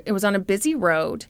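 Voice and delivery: ordinary delivery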